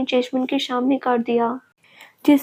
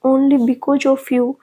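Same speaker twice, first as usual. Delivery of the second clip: very slow, each word weighed and pressed louder; slow bitter accusation; 4 dB louder, much slower than usual. Acted. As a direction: drag it out, blaming her. Accusing the girl. (धीमा, कड़वा इल्ज़ाम)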